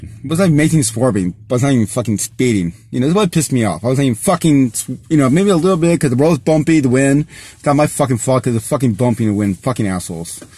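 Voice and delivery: rising, heated rant with cursing; getting worked up. Real, not acted. Driver venting about being pulled over, heated rant. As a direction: let the anger at the cops boil up, then drop off on the curse. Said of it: "I get really emotional 'cause cops are assholes".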